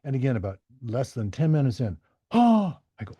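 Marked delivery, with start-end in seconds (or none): 2.3-2.8 loud, high imitated gasp; sharp acted gasp of alarm; startled gasp. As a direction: re-enact a sudden startled "oh". Retold patient's startled reaction.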